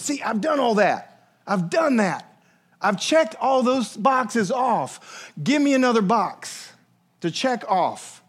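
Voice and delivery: rising to a slow drawn-out shout on "checked all those boxes"; eager boast. Acted. Rich young ruler bragging to Jesus, in an eager shout. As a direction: push eagerly, proud of every box ticked. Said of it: "he jumps and he goes".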